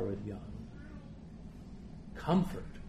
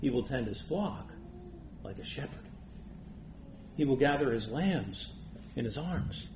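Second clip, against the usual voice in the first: tender reading. Acted. Reading the shepherd verses tenderly.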